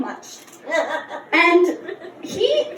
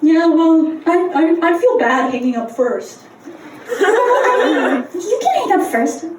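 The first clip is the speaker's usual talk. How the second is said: mock couple bickering over hanging up; playful back-and-forth, rising to a shout; giggly late night call. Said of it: "they were just going".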